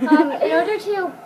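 prissy little princess talk. Real, not acted. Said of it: "You're talking like a little princess".

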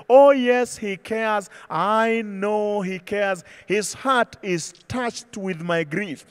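soft, slow and tender, almost whispered to God; hushed song quote. Acted. Preacher quoting a hymn to the congregation, hushed and slow. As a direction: let the words fall quiet and slow.

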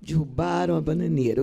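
subdued, sorrowful line reading; understated grief in the verse; sad recitation. Shown as a demonstration. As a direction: say it as if mourning. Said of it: "Fale com tristeza, como se sua mãe estivesse morrendo".

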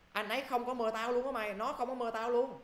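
high-pitched mock complaint; acted dismay. Uninvited friend telling a mate about the snub, acted dismay.

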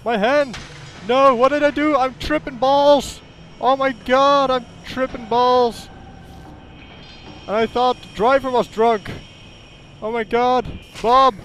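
hammed-up, high-pitched alarm; mock panic. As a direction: yell as if everything is going wrong. Ambulance door opens, game surgery goes wrong.

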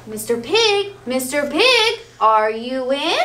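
a lightly voiced wolf calling politely at the door, slowing at the end. Wolf calls to pig through the door, lightly voiced. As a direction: call in to the house, slow and polite. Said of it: "So he called in".

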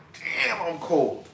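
slow, soft self-admiring murmur. Retold or imitated. To his mirror reflection, a slow soft self-admiring murmur. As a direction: savor it quietly, pleased with yourself.

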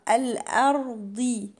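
"الأرض" with light hamza and dark ر; heavy ra. Shown as a demonstration. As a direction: start "الأرض" thin, then thicken the ر. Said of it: "الهمزة هنا مرققة والراء تبقى مفخمة".

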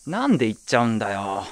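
exasperated protest. Acted. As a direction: push back, fed up but joking. Protests the friend ruined his effort. (呆れ気味の抗議)

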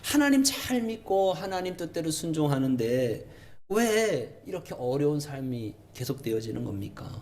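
high, insistent rhetorical questions; indignant acted complaint; arguing with God. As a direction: demand answers like an aggrieved prophet. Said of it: "예레미야가 막 따지듯이 물어요".

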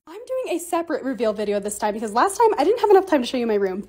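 ordinary talk, nothing marked

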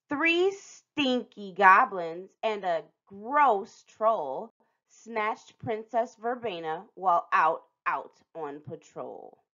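slow, sing-song rhyme reading; slow storybook rhyme. A narrator's reading. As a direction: read it like a picture book aloud.

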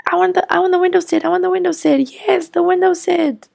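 high, fast insistence; child pleading with parents; whiny kid demand. Acted. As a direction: beg for the window seat. Child insists on window seat.

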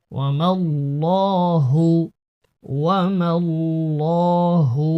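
ওয়ামাল্লাহু with a full, dark, thick ল্ল, slow; heavy lam in Allah. Shown as a demonstration. Teacher showing the heavy lam of Allah, slow. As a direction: darken the lam of আল্লাহ. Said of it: "আল্লাহ শব্দের এই লামটি মোটা পড়তে হবে".

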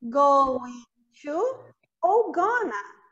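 going to then gonna, gonna as GUH-nuh. Shown as a demonstration. Teacher showing going to shrinking to gonna. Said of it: "tanto faz falar going to".

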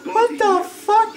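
very high, squealing what the fuck; slow, high and stunned; shrieking disbelief. Real, not acted. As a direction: stretch it out in a high squeal of shock. Stunned by a falling soldier.

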